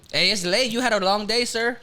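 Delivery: put-on vendor voice with a Mexican Spanish accent. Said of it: "Not the accent".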